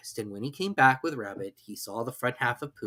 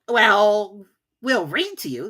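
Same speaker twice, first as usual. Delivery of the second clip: higher, louder cheery offer; cheerful Rabbit; 9 semitones higher, 7 dB louder, slower than usual. A narrator's reading. Rabbit cheerfully tells stuck Pooh they'll read, higher cheery voice. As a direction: brightly offer comfort. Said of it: "said Rabbit cheerfully".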